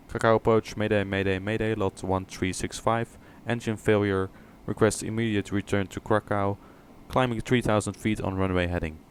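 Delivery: pilot radio call, urgent and clipped; radio a mayday like a pilot in trouble. Shown as a demonstration. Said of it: "let's take a look at one example".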